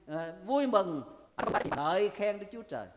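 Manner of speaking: normal talking voice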